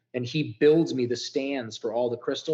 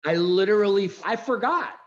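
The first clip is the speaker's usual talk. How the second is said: overwhelmed realization; 6 semitones higher, 4 dB louder than usual. Retold or imitated. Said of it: "I got choked up".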